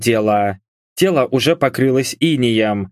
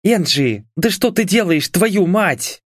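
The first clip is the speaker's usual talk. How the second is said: higher, exasperated swearing; cursing; 7 semitones higher than usual. A narrator's reading. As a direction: curse at her friend in alarm. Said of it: "Выругалась Мишель".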